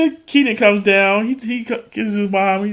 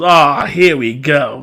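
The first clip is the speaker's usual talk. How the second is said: knowing drawl; 3 semitones lower, 5 dB louder, much slower than usual. Retold or imitated. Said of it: "it was one of those".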